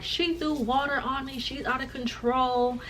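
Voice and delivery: high, drawn-out tattling; put-on whiny accusation; mock complaint. Nurse complaining to police officer.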